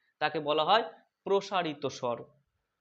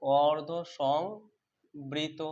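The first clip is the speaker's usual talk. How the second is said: slow sing-song teacher model; drawn-out drill; much slower than usual. Shown as a demonstration. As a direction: stretch অর্ধ সংবৃত very slowly, rising at the end. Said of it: "তারপরে কি রয়েছে বলো তো?".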